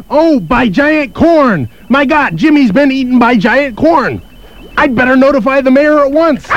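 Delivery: dramatic realization. Acted. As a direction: land the reveal big and hammy. Doctor realizes the horror.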